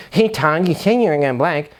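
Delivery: mock sarcastic voicemail, quick at the end; snarky passive-aggressive. Shown as a demonstration. Coach shows the wrong voicemail to Todd, passive-aggressive. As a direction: sneer the reminder at Todd. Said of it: "snarky or sarcastic or passive-aggressive tone".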